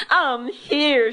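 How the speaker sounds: high, loud joyful call; girl lands on the farm sand and calls out happily; happy shout. Acted. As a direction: announce her arrival to the whole farm. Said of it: "she shouted happily".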